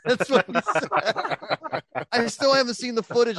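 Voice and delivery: stretched out, wheezing with laughter; laughing. Real, not acted. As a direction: crack up while you say it. Cracking up retelling the story.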